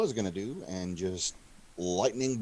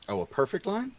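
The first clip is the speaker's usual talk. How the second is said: surprised; 9 semitones higher than usual. Real, not acted. Player reacts to the tip.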